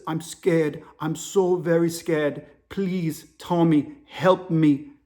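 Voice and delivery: put-on hushed, slow African-accented plea; whispering African caller. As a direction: imitate a scared African man begging for help. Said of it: "The African dude's whispering".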